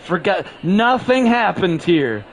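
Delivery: slow, solemn mind-wipe voice; mock memory wipe. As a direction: erase their memory, slowly. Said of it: "uh, Men in Black".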